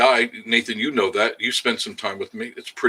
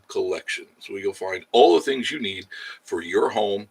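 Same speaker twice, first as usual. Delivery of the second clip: commercial read. Pretend. Streamer reading a home store ad to viewers, commercial voice. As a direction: sell it like a local radio spot.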